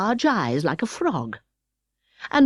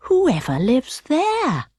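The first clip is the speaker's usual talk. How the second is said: mild wonder; 4 semitones higher, much slower than usual. Acted. Alice wonders.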